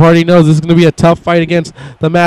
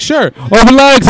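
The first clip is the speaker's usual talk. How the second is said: mock high voice; 7 semitones higher than usual. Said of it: "Jeff's like".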